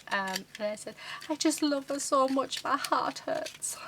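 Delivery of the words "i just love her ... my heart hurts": slow breathy whisper breaking into tears, imitating herself; retold tearful confession. Telling husband she loves the dog, mock tearful whisper. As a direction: replay the weepy moment, half-whispered, slowing down. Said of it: "I turned to him crying".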